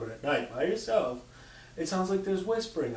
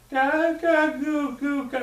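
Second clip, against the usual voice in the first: put-on high, louder baby babble from a toy; 13 semitones higher, 6 dB louder, slower than usual. The toy going off after two hours, high baby babble. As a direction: coo like an electronic baby doll.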